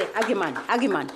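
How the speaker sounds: 'Ageman' said with a hard G as in her home language; the G in 'Ageman' kept hard, West African style; West African accent. Shown as a demonstration. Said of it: "I'm using my African accent because a G is a G".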